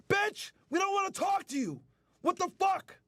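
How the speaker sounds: furious rant at the camera; angry shout. Real, not acted. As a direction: yell it in real anger. Ranting angrily at the woman.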